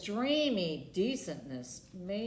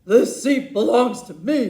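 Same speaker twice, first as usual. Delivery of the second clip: a loud bossy bark; much louder snapping claim; 14 dB louder than usual. Acted. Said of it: "barked blubbering Beth Ann".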